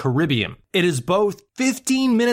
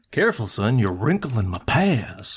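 Goofy; 6 semitones lower than usual. Retold or imitated. Cartoon father warning his son about the map, mock-cautious. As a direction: drop low and draw out the fatherly warning. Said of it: "They were following Goofy's map".

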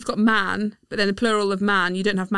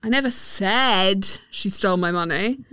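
"said" carries the stress. Shown as a demonstration. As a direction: hit the word "said". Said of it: "depending on the stressed word".

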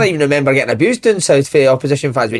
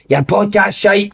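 heckler's jeer; 4 semitones higher, much slower than usual. Retold or imitated. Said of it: "a guy for ninety minutes just kept going".

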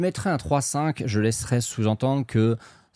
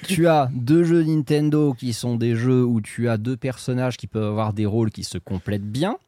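inquisitor tone; slower than usual. Acted. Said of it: "Oh, le ton acquisiteur".

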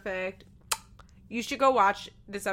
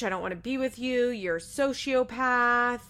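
mock yell; 3 semitones higher, 4 dB louder than usual. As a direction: imitate an angry rant without fully shouting. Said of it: "Nate is screaming at her".

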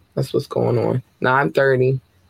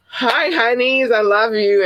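much higher and slowed, sweetly teasing; playful greeting; 9 semitones higher than usual. Real, not acted. Host playfully greeting Russian listeners, high and slow. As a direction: coo it out to the listeners.

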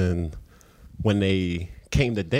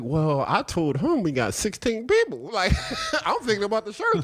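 laughing panic. Retold or imitated. Panicked at thirty girls, laughing.

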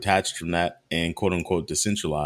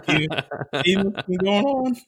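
incredulous; 10 semitones higher, 4 dB louder than usual. Real, not acted. Incredulous rant about the news.

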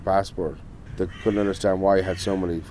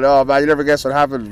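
loud, high, animated storytelling; excited retelling; 6 semitones higher, 7 dB louder than usual. Retold or imitated. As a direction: burst out with the incredible news, imitating your mate. Animatedly retelling friend's breathless news.

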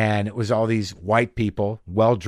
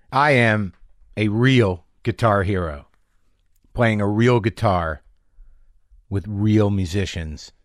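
slow grand boast; slower than usual. Acted. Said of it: "self-mocking grand claim".

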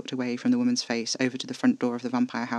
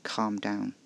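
flat repeat; 4 semitones lower, 6 dB quieter than usual. A narrator's reading. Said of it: "His tone was flat, unreceptive".

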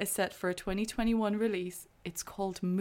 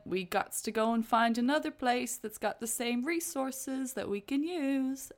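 alien voice; 5 semitones higher than usual. Retold or imitated. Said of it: "and went".

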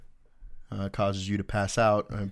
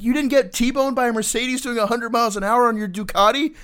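high, louder disbelieving demand; incredulous first sergeant; 13 semitones higher, 8 dB louder than usual. Retold or imitated. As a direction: spell out the story in shock. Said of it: "He's like".

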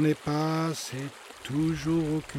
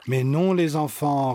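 reassuring; 6 dB louder than usual. Acted. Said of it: "rétorque Tata Géphir rassurante".

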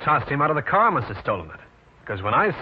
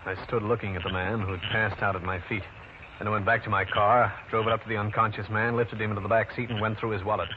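hard-boiled narration. A narrator's reading. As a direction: tell the case like an old radio private eye. Detective narrates his own case.

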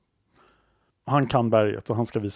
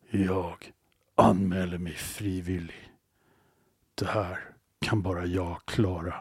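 solemn volunteer; 4 semitones lower, 4 dB quieter, slower than usual. Acted. Hero volunteers in told story.

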